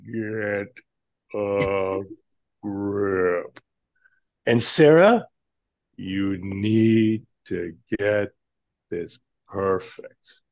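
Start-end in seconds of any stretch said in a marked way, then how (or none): 0.1-3.6 drawn out, word by word; slow deliberate reading with long gaps; really slow. Shown as a demonstration. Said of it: "Say it really slow". 5.9-10.4 slow and a little lower; really slow. Shown as a demonstration. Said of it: "Say it really slow".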